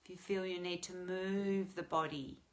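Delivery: calm meditation guide, with long pauses; guided meditation. Real, not acted. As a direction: gently lead them into the breath.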